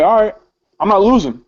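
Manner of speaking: determined, digging-in retelling; defiant resolve. Retold or imitated. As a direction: dig your heels in. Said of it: "I get on my Rosa Parks shit".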